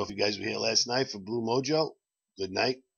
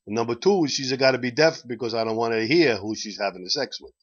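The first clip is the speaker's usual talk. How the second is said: attempted Italian accent for a joke Pope; 3 dB louder than usual. The Pope sets terms to the doctor, in an Italian accent. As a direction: put on a light Italian accent. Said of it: "so I'll try to do the Italian accent".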